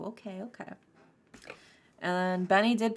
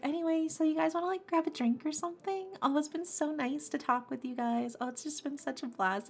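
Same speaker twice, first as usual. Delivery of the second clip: chill party person; 8 semitones higher than usual. Retold or imitated. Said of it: "they're like".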